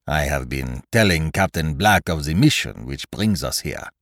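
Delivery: put-on methodical detective in a French-style accent; Poirot, foreign-accented detective. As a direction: reason it out aloud with a foreign accent. Voices Poirot in dialogue.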